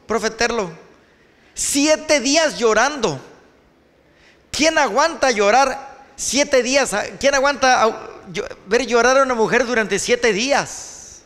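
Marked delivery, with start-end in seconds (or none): 1.5-11.2 raised, slowed, incredulous exclamation; exasperated exclaiming. Real, not acted. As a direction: exclaim it as if nobody could stand it. Preacher exclaims about week of crying.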